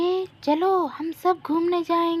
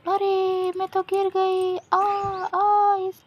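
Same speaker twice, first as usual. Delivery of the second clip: mock falling cry; 4 semitones higher, slower than usual. Toys tumble over in the fight, mock cry.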